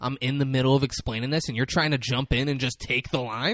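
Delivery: indignant rant, escalating to an incredulous yell; mock outrage. Host scolding co-host for stealing the best line, mock outrage.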